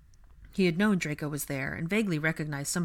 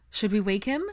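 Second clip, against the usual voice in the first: higher, louder worried question; anxious; 4 semitones higher, 6 dB louder than usual. A narrator's reading. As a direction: suggest it with anxious urgency. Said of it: "Ginny asked Hermione anxiously".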